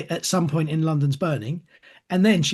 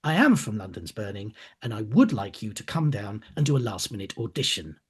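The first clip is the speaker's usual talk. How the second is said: a hint of a stern casting director, lower by the end; firm, no-nonsense final warning, dropping lower; 4 semitones lower than usual. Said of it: "her tone of voice suddenly changed".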